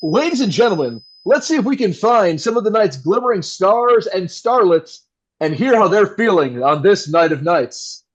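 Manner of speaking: lightly voiced smooth radio host; radio announcer voice. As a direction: back on air, all charm. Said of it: "Back to the radio announcer voice".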